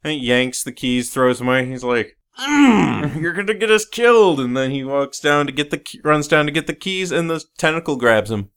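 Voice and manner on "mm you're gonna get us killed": high, fast mock scolding; exasperated warning. Podcaster mimicking the hero scolding the reporter, high and fast. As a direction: whine it like a fed-up hero.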